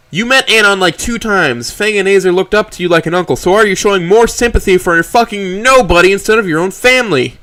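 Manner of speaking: high, loud enraged yelling, slowing at the end; furious outburst. Acted. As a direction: unload all the rage on him. Trish raging at Mo.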